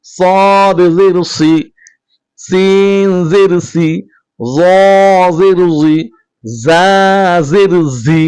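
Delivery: slow, even chant of each letter and vowel; steady teacher's chant, measured and clear; letter recitation drill. Shown as a demonstration. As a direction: recite every syllable clearly for students to repeat. Drills Arabic letters with vowel marks.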